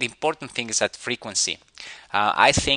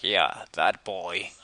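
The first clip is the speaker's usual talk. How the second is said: imitating a dopey character; 2 semitones lower, 3 dB quieter than usual. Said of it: "So he's like".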